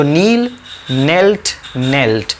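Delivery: "नील, नेल्ट, नेल्ट" starting on a plain N sound; teacher drilling "नील, नेल्ट, नेल्ट" with silent K. Shown as a demonstration. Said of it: "के silent है".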